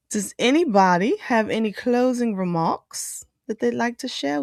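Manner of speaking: host signing off in a playful pretend British accent; put-on British accent. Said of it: "in that accent".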